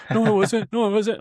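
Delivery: high, loud, hurried mock denial; shaky denial, mimicked. Woman confronted by housemate denies it, mock-rattled and high. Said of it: "she started shaking".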